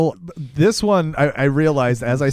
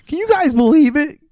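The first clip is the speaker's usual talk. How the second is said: high, loud goofy stoner voice; excited road trip, goofy and high; Shaggy impression; 5 dB louder than usual. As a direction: squeak it out like a lazy cartoon hippie. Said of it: "sounded like Shaggy".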